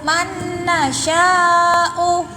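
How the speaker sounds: man nasya'u slowly, nun held two beats; model man nasya'u. Shown as a demonstration. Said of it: "jangan panjang-panjang, Haikal".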